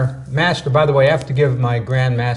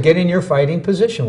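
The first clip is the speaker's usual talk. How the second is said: put-on Korean accent; 4 semitones higher than usual. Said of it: "he said".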